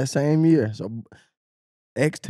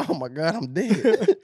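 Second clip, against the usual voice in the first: laughing exhausted; 4 semitones higher, slower than usual. Retold or imitated. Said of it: "I was like".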